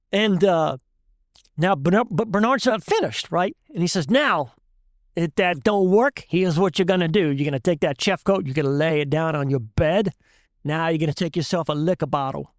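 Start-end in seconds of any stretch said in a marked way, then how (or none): 4.1-12.5 put-on thick Cajun accent. Cajun shrimper explaining to the class what to do, thick Cajun accent. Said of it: "Bernard says in that thick Cajun accent".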